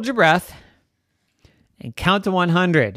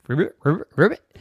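frogs croaking back; faster than usual. Acted. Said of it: "all the frogs ribbited back".

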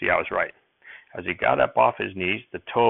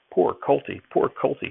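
soothing horse; 7 semitones higher than usual. A narrator's reading. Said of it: "he said soothingly".

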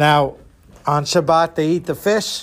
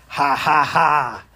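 slow, spelled-out stage laugh; mock ghostly laugh; 3 semitones lower, slower than usual. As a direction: laugh like a pretend Angel of Death. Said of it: "she laughs and says".

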